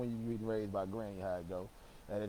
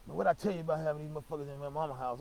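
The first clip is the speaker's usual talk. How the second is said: scolding; 5 semitones higher, 4 dB louder, faster than usual. Retold or imitated. Uncle scolding quote.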